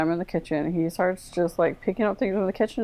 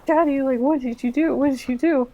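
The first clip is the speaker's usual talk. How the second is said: higher-pitched retold voice of a son calling to Daddy; imitating Mark; 7 semitones higher than usual. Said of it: "I hear Mark come out from behind me and he's like".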